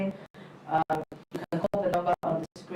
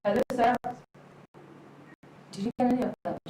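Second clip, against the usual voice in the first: higher voice, calling to check the connection; calling down the line; 5 semitones higher, faster than usual. Real, not acted. Host checking if the caller is still there, calling out. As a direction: reach out to a caller who may be lost.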